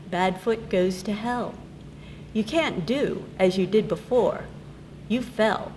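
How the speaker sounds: measured villanelle reading with lifted line openings; poem recitation. Acted. Poet reading her villanelle to an audience, measured recitation. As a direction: recite the poem, pausing between lines.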